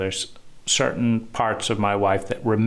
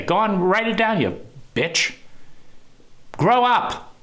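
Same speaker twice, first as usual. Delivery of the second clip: angry yell; 9 semitones higher than usual. Retold or imitated. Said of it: "if you say".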